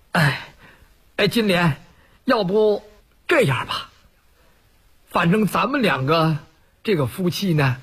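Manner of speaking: a timid man stumbling over his words to calm her; Wu Dalang stammering. Acted. Wu Dalang offers to let her go.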